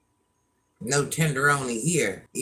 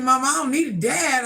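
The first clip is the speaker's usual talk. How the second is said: son's voice; 9 semitones higher, 3 dB louder than usual. Retold or imitated. Son quoted in retold talk.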